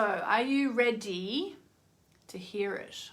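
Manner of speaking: slow, drawn-out hint of Moira; lightly put-on theatrical drawl; Moira impression. To viewers, a slight Moira-style tease. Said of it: "That was a bit of Moira coming out just then".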